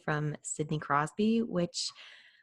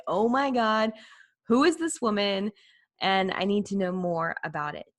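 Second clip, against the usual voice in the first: excited inner thought; 4 dB louder than usual. Retold or imitated. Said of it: "and I was like".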